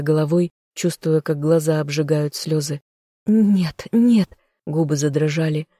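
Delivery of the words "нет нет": desperate cry. A narrator's reading. Desperate refusal, lips trembling.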